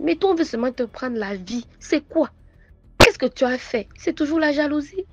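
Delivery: high, loud, rushed lament; retold cry of a stranger over a sick girl; exclaiming woman. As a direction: cry out over the child in pity. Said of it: "elle s'écrie".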